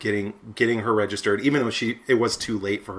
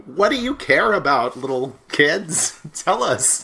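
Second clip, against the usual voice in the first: put-on slow, higher creaky old man; 6 semitones higher, 4 dB louder, slower than usual. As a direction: talk down to the little kids like a grandpa. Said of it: "in my old man voice".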